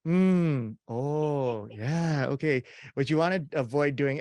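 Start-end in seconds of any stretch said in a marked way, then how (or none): 0.1-2.6 mom's reacting noises. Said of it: "my mom kept going".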